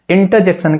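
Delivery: इंटरजेक्शन with the R dropped; silent R. Shown as a demonstration. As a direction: say "inta" at the start of इंटरजेक्शन. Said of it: "वो silent होता है". (इंटरजेक्शन में आर silent)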